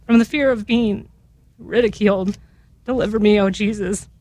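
halting prayer, holding emotion back; resume the litany, pausing to collect yourself; real emotion, restrained and halting; getting emotional. Real, not acted. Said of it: "I don't know why I'm getting emotional".

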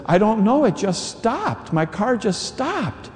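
high, slow, worried lady's voice, voiced lightly; a hint of a helpless stranded driver.

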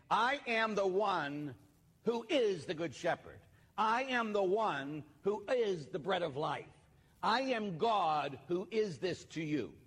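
preacher voicing Jesus, slow and grand; solemn voice of Jesus. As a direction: proclaim each I am slowly like the Lord.

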